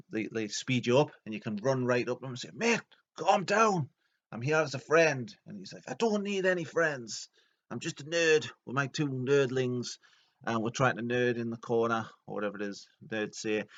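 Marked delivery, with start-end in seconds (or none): 2.5-5.3 hammed-up friendly calming; mock soothing. Approaching raging nerd. 5.9-12.1 lightly voiced nerd. Nerd voiced refusing friendship.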